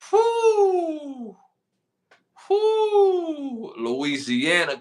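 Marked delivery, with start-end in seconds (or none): 0.1-3.7 high, piercing celebratory whoo; excited whoo. Real, not acted. Hyped host cheering for Louisiana. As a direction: cheer for your pick.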